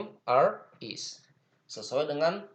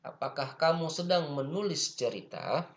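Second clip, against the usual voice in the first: higher-pitched question, rising on "cerita"; question intonation; 4 semitones higher than usual. Shown as a demonstration. Teacher modelling a question in translation for students, question intonation rising on "cerita". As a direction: ask it with an up-and-down tune, lifting the end of "cerita". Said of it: "ada intonasinya".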